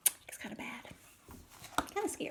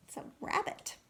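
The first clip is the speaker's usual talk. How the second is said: whisper; 7 dB quieter, faster than usual. Real, not acted. Teacher whispers the animal name.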